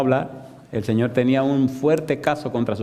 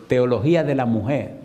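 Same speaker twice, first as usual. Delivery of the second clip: clarifying repeat. Retold or imitated. Preacher repeats the term for a puzzled husband, deliberate and clear. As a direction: say "Teología de la mujer" deliberately, word by word.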